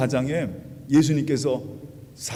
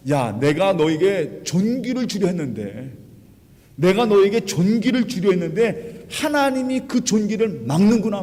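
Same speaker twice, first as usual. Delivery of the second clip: slow, drawn-out rebuke climbing higher; acted angry scolding; 3 semitones higher than usual. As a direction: play a thwarted king telling someone off. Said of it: "야단을 치면서 분노하면서".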